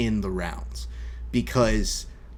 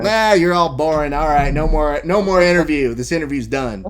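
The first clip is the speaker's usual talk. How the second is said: loud, higher brash heel voice; Chael Sonnen voice; 4 semitones higher, 7 dB louder than usual. Retold or imitated. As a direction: cut him off like a cocky heel. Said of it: "that's not me speaking, that's Chael".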